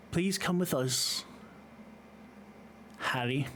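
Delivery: put-on measured request in a Russian accent. Assailant asks Harry to come along, in a Russian accent. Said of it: "this accent is heavily, heavily Russian".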